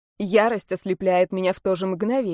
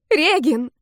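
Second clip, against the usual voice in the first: high, loud shout of the name; piercing cry; 7 semitones higher, 5 dB louder than usual. Acted. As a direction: cry out to him across the corridor. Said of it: "Мой крик оглушает Арканиса".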